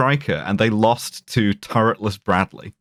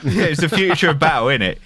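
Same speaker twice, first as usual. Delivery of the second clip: playful put-on British accent; hammed-up British accent; mock British accent; 2 semitones higher than usual. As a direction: join in the British lad parody. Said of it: "I'm the British guy".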